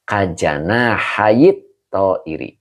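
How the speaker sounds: kajana hayit to iri read slowly, syllable by syllable; slow careful reading. Shown as a demonstration. Teacher showing the online class how to read it, slow and deliberate. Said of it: "boleh dibaca".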